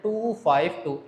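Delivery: "टू फाइव टू" read as separate digits; teacher's decimal-reading demo of "टू फाइव टू". Shown as a demonstration. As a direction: give each of "टू, फाइव, टू" its own beat. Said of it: "one by one".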